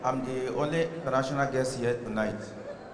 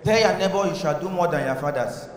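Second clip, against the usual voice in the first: pastor's call. Retold or imitated. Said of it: "the pastor was telling".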